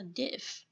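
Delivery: "diff" ending in a clear f sound, not a p; correct diff. Shown as a demonstration. A teacher corrects her student's "diff" and says it with a clear f. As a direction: end "diff" on a soft f. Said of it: "Nó không phải".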